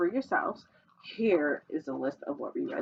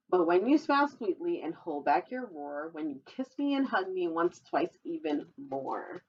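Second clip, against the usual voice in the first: put-on reading to children. Reading a dinosaur picture book to children, sing-song storytelling voice. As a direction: read the rhyme brightly to little listeners.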